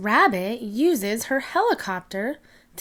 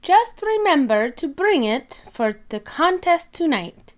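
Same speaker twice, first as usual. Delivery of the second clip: teacher voice; 6 semitones higher, 3 dB louder than usual. Acted. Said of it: "says Madame Gazelle".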